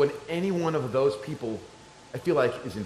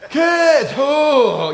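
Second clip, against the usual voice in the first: loud, high drawn holler; calling out; 11 semitones higher, 9 dB louder than usual. Retold or imitated. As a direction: call for lost kids far off, hammed-up. Calling out for lost kids.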